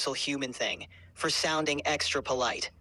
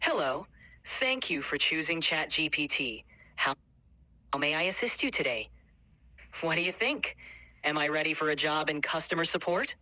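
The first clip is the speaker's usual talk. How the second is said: customer service voice. Shown as a demonstration. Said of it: "do your best customer service voice right now".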